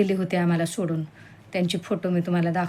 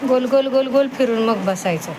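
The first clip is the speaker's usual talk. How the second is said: higher sing-song "गोल, गोल"; sing-song command making the dog spin before sitting; playful command; 5 semitones higher, 3 dB louder than usual. Real, not acted. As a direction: cheer the dog round in circles.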